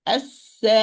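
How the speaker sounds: "As-sama" with a little push into the final hamza; hamza with nabr. Shown as a demonstration. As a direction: hold the last vowel of "As-sama", then sound the hamza clearly. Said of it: "put the sound a little".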